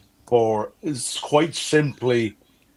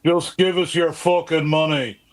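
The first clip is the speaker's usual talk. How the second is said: put-on Irish accent, raised and punchy; Irish rock star demanding money; impression of a rock star; 6 semitones higher, 4 dB louder than usual. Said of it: "my rock star impression".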